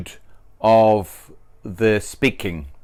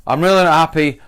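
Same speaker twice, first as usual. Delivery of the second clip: louder, stress on "really"; emphatic; 3 semitones higher, 4 dB louder, faster than usual. Shown as a demonstration. Teacher demos emphasis before normal speech. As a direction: lean on "really" then drop it. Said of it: "tone of emphasis".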